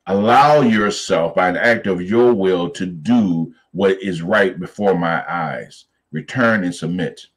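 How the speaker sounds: measured, slow command in God's words; slow, deliberate instruction. Retold or imitated. Preacher voices God's instruction to Hagar, slow and deliberate. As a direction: spell out the instruction slowly, phrase by phrase.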